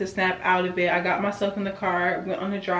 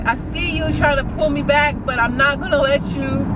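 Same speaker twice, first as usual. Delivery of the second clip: self pep talk; 3 semitones higher, 3 dB louder than usual. Real, not acted. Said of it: "preaching to herself on clip".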